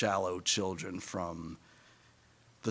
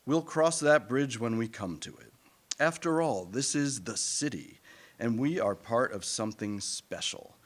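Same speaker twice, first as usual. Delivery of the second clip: self-assured rationalizing; 2 semitones higher than usual. Retold or imitated. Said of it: "This is what we tell ourselves".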